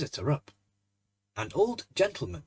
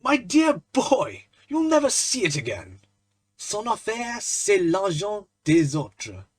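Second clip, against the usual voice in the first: amused; 6 semitones higher, 7 dB louder, slower than usual. Acted. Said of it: "burst into a roar of laughter".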